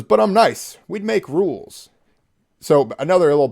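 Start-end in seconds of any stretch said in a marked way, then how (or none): 0.0-1.9 higher-pitched mock sweet-talk; creepy texter. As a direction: lightly put on a creepy suitor's coaxing. Reading out creepy man's texts.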